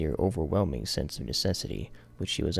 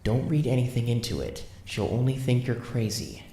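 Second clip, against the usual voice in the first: put-on higher young man's inner voice; 7 semitones higher, 3 dB louder than usual. A narrator's reading. His inner voice warning him not to seem crazy. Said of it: "his inner voice reminded him".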